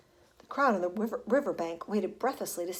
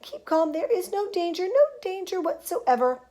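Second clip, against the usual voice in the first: soothing call; 7 semitones higher than usual. A narrator's reading. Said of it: "called Mister Wonka".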